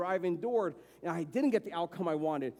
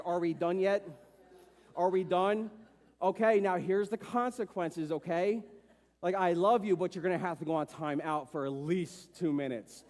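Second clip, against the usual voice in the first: patient parent. Retold or imitated. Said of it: "like a two-year-old throwing a tantrum".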